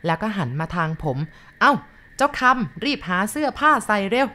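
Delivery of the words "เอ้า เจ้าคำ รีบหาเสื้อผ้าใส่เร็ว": much higher and louder call to hurry; grandma calls. Acted. Grandma loudly orders the boy to dress quickly.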